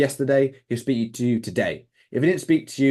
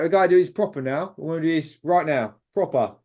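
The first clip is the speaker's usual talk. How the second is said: put-on London accent; 4 semitones higher than usual. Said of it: "London accent, talk like that all the time".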